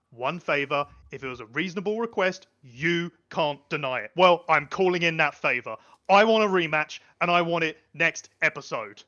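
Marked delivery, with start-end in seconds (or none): 4.2-9.0 a touch louder, insistent demand; firm demand. Acted. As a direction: press the demand home. Chad demanding a rematch.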